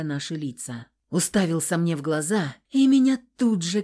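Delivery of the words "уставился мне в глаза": plain reading voice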